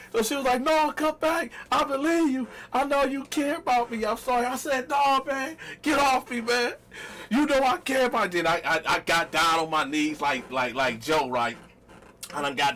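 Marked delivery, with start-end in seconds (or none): 0.6-4.5 put-on pleading girlfriend. 4.9-8.3 mock outrage. Fake exit to girlfriend.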